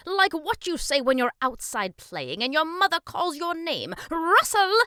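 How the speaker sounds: high, booming king voice rising to a call. A narrator's reading. King imitates mother calling boy in, loud calling. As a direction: holler as to someone outside. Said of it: "King Shumiwami called".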